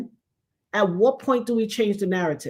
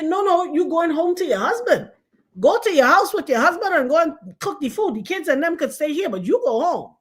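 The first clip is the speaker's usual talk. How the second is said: higher, firm grandmother voice sending her home; a lightly voiced no-nonsense grandmother; bossy grandmother; 5 semitones higher than usual. Grandmother ordering granddaughter home to her husband, firm. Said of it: "She like".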